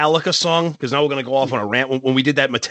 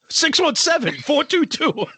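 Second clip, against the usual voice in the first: mock promo read; 11 semitones higher than usual. Mock phone number promo.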